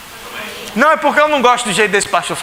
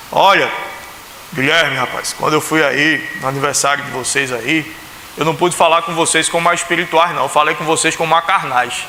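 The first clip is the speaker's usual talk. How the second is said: mock letter from a fellow pastor, lower and hushed; pastor Humberto's letter; 5 semitones lower than usual. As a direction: read it as a laid-back pastor chatting with Guilherme. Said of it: "Chegou uma carta do pastor Humberto".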